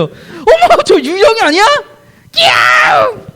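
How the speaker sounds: hammed-up scream with a laugh; screaming in fright. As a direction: act the disciples screaming at the ghost. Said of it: "소리 질러, 소리 질렀다고".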